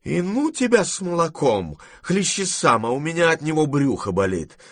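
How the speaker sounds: put-on high-pitched irritated old lady; cross dismissal. Grandmother crossly rejecting milk. (сварливо, повыше)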